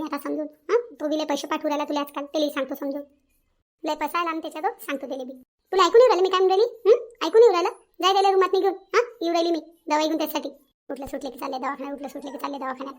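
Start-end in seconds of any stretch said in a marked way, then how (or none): 5.7-9.2 louder, sharp demanding snap; angry scolding. Acted. Mother-in-law scolding daughter-in-law who won't listen, angry and loud. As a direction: bark at her for not listening.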